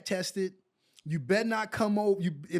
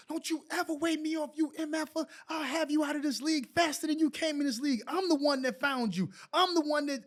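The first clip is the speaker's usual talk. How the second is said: retold cussing out; 6 semitones higher than usual. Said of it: "he cussed me out".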